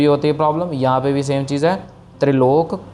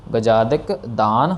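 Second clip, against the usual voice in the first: slow recitation; slower than usual. Shown as a demonstration. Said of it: "teacher recites the phrase".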